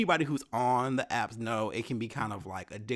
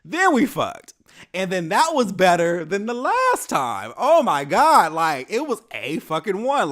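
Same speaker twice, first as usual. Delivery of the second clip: louder, higher, gushing about it; excited; 7 semitones higher, 10 dB louder than usual. Real, not acted. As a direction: burst out with real excitement. Excitedly recalling great sex.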